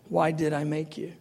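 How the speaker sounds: soft, calm voice of God; gently. Retold or imitated. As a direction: ask it sweetly and calmly. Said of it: "just sweetly and calmly to my heart".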